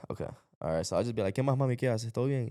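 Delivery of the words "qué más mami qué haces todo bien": easy Ecuadorian Spanish, lilting up in pitch; Ecuadorian accent. Shown as a demonstration. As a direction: greet mom in a natural Ecuadorian accent. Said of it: "that's how we talk, like that".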